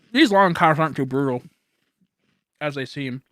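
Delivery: talking through a mouthful of fries; chewing between words; wolfing down food. Real, not acted. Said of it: "Sorry for the chewing".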